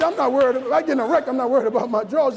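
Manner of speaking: laughing protest. Retold or imitated. Son arguing back.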